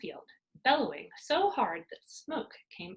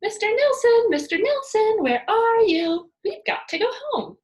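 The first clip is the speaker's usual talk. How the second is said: very loud, much higher calling out; shrieking at full voice; 12 semitones higher, 11 dB louder than usual. A narrator's reading. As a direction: yell across the woods for the monkey. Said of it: "shrieking at the top of her voice".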